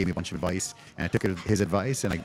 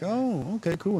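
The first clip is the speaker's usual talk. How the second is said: high-pitched imitated child; kid voice; 13 semitones higher, slower than usual. Kids accepting that the stranger is the boss, high mock child voice. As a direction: pipe up like an easily satisfied kid.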